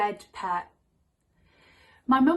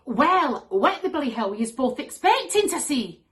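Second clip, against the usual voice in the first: loud, no-nonsense Glaswegian mum; Glaswegian accent; 4 semitones higher, 6 dB louder than usual. Acted. Mum scolding both daughters, exasperated Glaswegian accent. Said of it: "She's Glaswegian and takes no shit".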